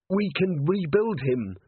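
hoarse, high and slow; strained, slightly hoarse plea. A narrator's reading. Carrot urges Vimes to save the golem, hoarsely. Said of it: "said Carrot hoarsely".

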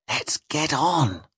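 ずっと小さく、ゆっくり急かす; 怯えて船長に小声で促す; whisper. Acted. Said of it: "I whispered to Spring".

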